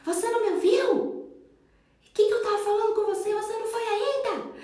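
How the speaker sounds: put-on high, loud, fast angry yell at a child; mock yell. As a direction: explode at the kid who didn't listen. (mãe gritando com o filho, alta e rápida)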